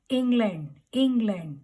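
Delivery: "इंग्लैंड" as ING-land; demonstrated England. Shown as a demonstration. Teacher asking learners to focus on sound, careful pronunciation. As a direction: clear "ing" opening on "इंग्लैंड". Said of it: "आप sound को focus करके देखेंगे".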